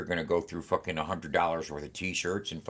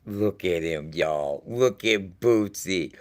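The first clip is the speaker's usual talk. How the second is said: excited gush; 3 semitones higher, 7 dB louder, much slower than usual. Real, not acted. Excited over the cat.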